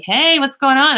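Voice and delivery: high, loud cheery hello; chirpy hi at the door; bright greeting. Retold or imitated. Greeting coworker at her door.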